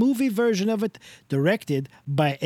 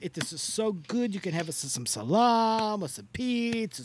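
Mister Del Rossi Italian voice; 3 semitones higher than usual. Acted. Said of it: "doing that Italian voice again".

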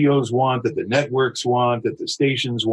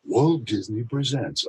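slowed, mock-dramatic announcer read; milk it with fake drama; 3 dB quieter than usual. Shown as a demonstration. Actor showing his own take, slow and fake dramatic. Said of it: "sort of more fake dramatic".

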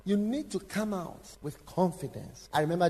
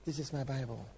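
congregation declaration. Retold or imitated. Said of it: "lift up his Bible and say".

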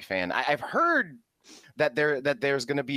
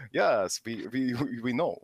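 lightly voiced mock Slavic vampire; Count Dracula; slower than usual. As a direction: slip into a hammy vampire accent. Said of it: "I just turned into Count Dracula".

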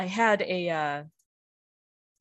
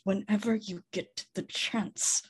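slow, tight, teeth-clenched Elvish; through gritted teeth; 3 semitones higher, 5 dB quieter than usual. Acted. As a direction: grit your teeth and push it out. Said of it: "through gritted teeth and Elvish".

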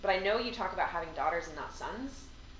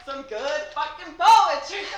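high, loud laughing brag, slow; gloating after her friend guessed wrong; laughing triumph; 10 semitones higher, 9 dB louder, slower than usual. Real, not acted. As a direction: crow through laughter.

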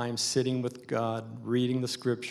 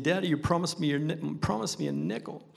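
put-on whiny kid voice; 4 semitones higher than usual. Child nagging father.

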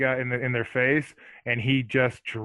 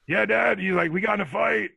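sheepish brother; 8 semitones higher, 4 dB louder than usual. Retold or imitated. Brother answering dad.

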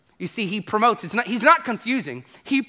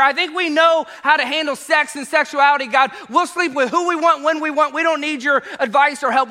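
loud, raised voice waving God away; defiant crowd; 7 semitones higher, 4 dB louder than usual. Retold or imitated. People telling God to back off, loud defiance. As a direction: push God off, loud and cocky.

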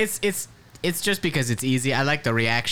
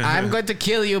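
Ronald McDonald threat; 7 semitones higher than usual. Retold or imitated. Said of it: "It's not Mickey Mouse".

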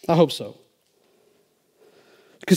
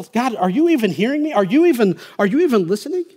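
pleading with God; 8 semitones higher, 6 dB louder than usual. Retold or imitated. Voices own doubting prayer to God.

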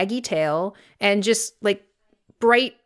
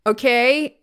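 Melvin's sass; 3 semitones higher than usual. Acted. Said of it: "the cat started sassing him".

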